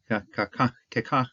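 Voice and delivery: Ka, ka, ka tapped out as sharp striking sounds; Ka, ka, ka beaten out like blows; onomatopoeic demo. Shown as a demonstration. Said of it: "onomatopoeia happening here".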